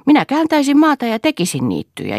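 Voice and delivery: put-on high excited little boy; eager child's voice. A narrator's reading. Boy dreaming of his island to his sister, high and eager.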